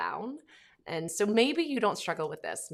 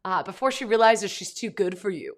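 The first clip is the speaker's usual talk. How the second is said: a loose, louder Australian bloke impression, half-hearted; rough Australian accent, lightly done; mock Australian accent; 2 semitones higher, 6 dB louder than usual. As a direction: ham up an Aussie mate telling his friend off. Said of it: "It was, like, a real Australian bloke".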